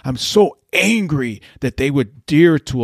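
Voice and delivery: a hint of a quavering angry senator, played for scorn; mocking Elizabeth Warren. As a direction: lightly mimic a trembling, indignant politician. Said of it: "just shaking".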